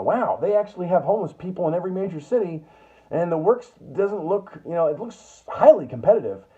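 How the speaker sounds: put-on non-native English accent. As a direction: play a newcomer who barely speaks English. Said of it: "my universal impression of not English".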